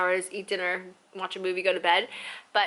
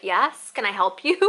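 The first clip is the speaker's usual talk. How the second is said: slow, louder mock-polite challenge; bitchy; 5 dB louder than usual. Tired traveler to person who turned to look, bitchy. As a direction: re-enact it with pointed sass. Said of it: "being a total bitch".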